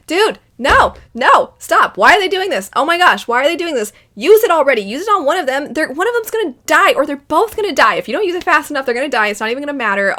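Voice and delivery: high, loud frantic shouting; reliving the panic while watching, yell it out; yelling at the screen. Retold or imitated. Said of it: "I feel I got quite loud just now".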